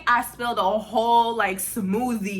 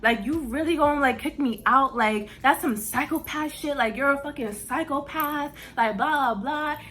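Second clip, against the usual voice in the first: mildly heated, slightly raised quoted outburst; retold angry yelling; 3 semitones higher than usual. Yelling in the driver's face, retold mildly heated. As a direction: replay your yelling at him, without a full shout. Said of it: "So now I'm yelling at him".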